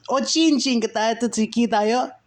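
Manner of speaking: very high, eerie voice; sing-song eerie call; whispering Dark Lord. A narrator's reading. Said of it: "They were repeated".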